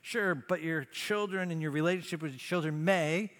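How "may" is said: "may" held out and left hanging; emphasis on MAY. Real, not acted. Preacher warning parents of lasting damage, stressed "may". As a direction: lean on the word "may", then stop. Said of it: "I emphasize the word".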